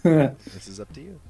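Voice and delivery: slow loud high emphasis. Real, not acted. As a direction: drag it out loudly.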